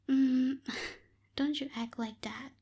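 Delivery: laughing whisper. Real, not acted. Teasing the listener, laughing.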